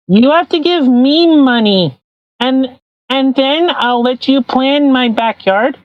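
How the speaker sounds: put-on whiny kid demanding candy; childish Trudeau voice. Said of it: "the more you're talking".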